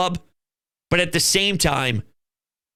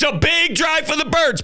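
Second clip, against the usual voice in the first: high excited call; excited shout; 8 semitones higher than usual. Retold or imitated. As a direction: hype up the big drive. Reliving big drive, shouting.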